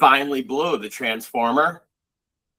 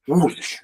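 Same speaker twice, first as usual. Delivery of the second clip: imitated whoosh; 4 semitones higher than usual. Imitates the sound of a wave.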